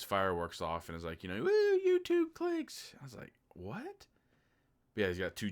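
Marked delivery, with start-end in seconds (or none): 1.4-2.9 very high, slow whooping mock cheer; mock YouTuber whoop. Imitates YouTuber shooting fireworks. 3.5-4.1 incredulous. Retold or imitated. Incredulous reaction to scene.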